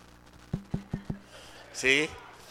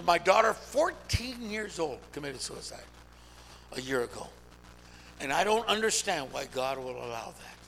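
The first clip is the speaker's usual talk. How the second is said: retold grieving confession; 3 semitones lower, 6 dB quieter than usual. Retold grieving mother confiding in preacher.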